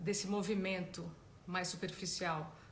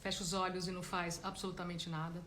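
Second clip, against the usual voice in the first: guided meditation; 7 dB quieter than usual. Real, not acted. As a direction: gently guide them inward, leaving space between phrases. Starts guiding the meditation.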